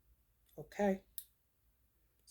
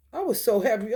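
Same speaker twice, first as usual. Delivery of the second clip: louder and higher, excited; happy; 4 semitones higher, 6 dB louder than usual. Real, not acted. Repeating to viewers how happy the twenty dollars made her, louder and higher. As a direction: lift it with real joy.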